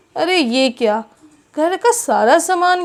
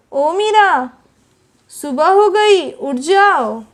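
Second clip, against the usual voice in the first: louder call across the house; 3 semitones higher, 5 dB louder, slower than usual. Acted. Mother-in-law calling Meera to wake up, loud call. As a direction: wake her from another room.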